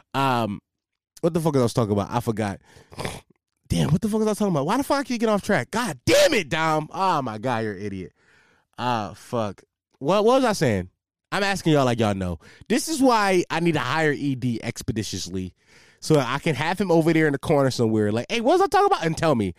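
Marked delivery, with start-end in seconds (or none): 3.7-6.9 higher, frustrated outburst; annoyed at losing the thread; exasperated self-scolding. Real, not acted. Scolding himself for losing track. 18.3-19.0 high-pitched pretend call across the room; much higher, acted-out query; calling out to helper.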